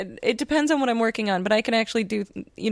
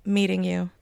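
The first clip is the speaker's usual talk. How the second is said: nervous fan whispering; starstruck whisper; 5 dB quieter, slower than usual. Retold or imitated. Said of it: "I went up to him like".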